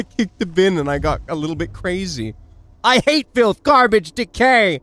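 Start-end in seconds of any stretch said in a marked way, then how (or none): 2.8-4.8 loud, high, crazed disgust; manic rant. Acted. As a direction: spit out each word in disgust. Character goes crazy after kicking.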